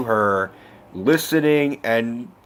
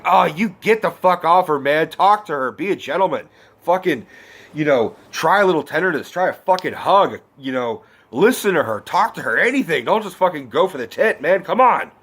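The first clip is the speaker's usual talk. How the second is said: pitched-up, indignant scolding; exasperated yelling; 4 semitones higher than usual. Retold or imitated. Viewer scolding a boy in the movie, exasperated yelling. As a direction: tell him off like an outraged viewer. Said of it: "I'm yelling at a fucking screen".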